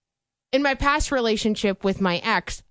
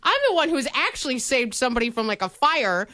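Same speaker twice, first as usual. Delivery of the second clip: mock boyfriend; 7 semitones higher than usual. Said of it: "He's like".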